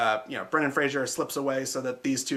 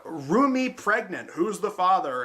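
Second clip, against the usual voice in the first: lightly voiced clickbait headline, pitched up; mock clickbait title; 5 semitones higher, slower than usual. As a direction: read out a video title mockingly, drawing out the first words. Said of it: "that Elsagate kind of content".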